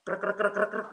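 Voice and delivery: measured string of "krek" noises; slow claw scratching. Retold or imitated. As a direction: imitate nails scraping, one after another. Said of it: "slow lagi".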